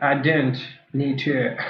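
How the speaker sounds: slow, mocking British accent; drawn-out mock-British mimicry; bad British accent. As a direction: imitate a badly faked British accent. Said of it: "doing that British accent so bad".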